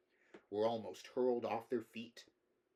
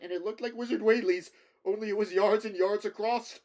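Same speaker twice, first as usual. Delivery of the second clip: much higher and louder, shrieking in terror; horrified screaming; 9 semitones higher, 11 dB louder than usual. Acted. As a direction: scream out the memory of the monster. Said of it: "burst in upon him again".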